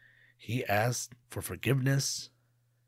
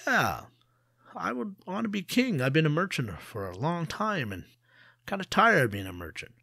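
merchant musing; 7 semitones higher than usual. Acted. Merchant muses aloud.

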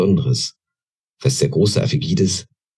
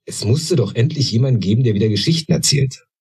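put-on insistent young goblin; 6 semitones higher than usual. A narrator's reading. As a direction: insist stubbornly. (höher, trotzig fordernd)

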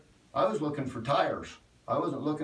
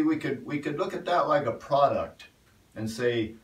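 preaching, growing louder toward the end; building sermon; 4 dB louder than usual. Acted. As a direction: press the point harder line by line, louder as you go.

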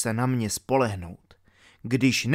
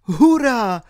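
high, loud cheer; joyful shout; 8 semitones higher, 7 dB louder than usual. A narrator's reading. Albert learns who the knight is, joyful shout. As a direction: cry out in triumph. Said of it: "Vzkřikl Albert".

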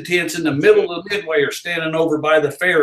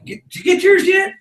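barker call. Shown as a demonstration. Barker demonstrating his hook to the hosts, high run-together call. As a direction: fire it off as one word. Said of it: "You had to say it all like that".

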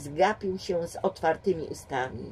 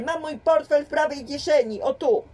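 excited; 8 semitones higher, 5 dB louder than usual. A narrator's reading. James still agitated at station.

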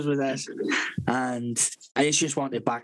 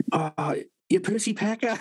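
slow, higher, coaxing mother; coy euphemism; 7 semitones higher than usual. Retold or imitated. Mother gently naming it for her son, coy. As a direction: ease the silly word in gently. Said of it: "she's like".

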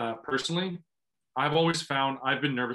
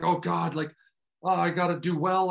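mock fretting, raised pitch; anxious overthinking; 4 semitones higher than usual. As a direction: act out mild pressure to perform. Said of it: "overthinking that and being like".

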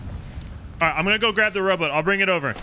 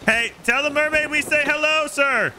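teasing high call; 11 semitones higher than usual. Acted. Teasing call to overboard friend.

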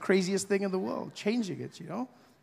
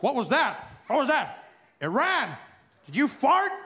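America's bully voice; 5 semitones higher than usual. Pretend. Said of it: "America's like".

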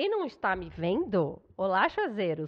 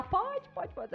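eager quoted yes; 8 semitones higher, 3 dB quieter, much slower than usual. Retold or imitated.

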